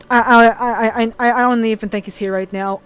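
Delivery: stumbling, fighting back tears; real emotion breaking through; emotional. Real, not acted. Streamer thanking a friend, halting with tears. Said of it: "getting a little bit emotional".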